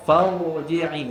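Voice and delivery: farji'i with a thick ra; farji'i with a full heavy ra. Shown as a demonstration. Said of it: "ra tu tebal".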